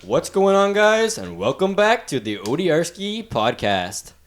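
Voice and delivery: slow, drawn-out radio host intro. Shown as a demonstration. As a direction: announce it like a radio DJ. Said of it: "I wanna get my radio voice".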